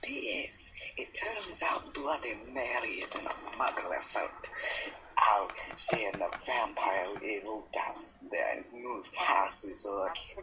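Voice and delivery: playful attempt at a Scottish accent. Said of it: "The Scottish accent sounds wonderful".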